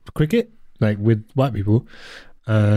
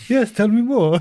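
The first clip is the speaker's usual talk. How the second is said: mock polite; 11 semitones higher than usual. Ironic reply retold.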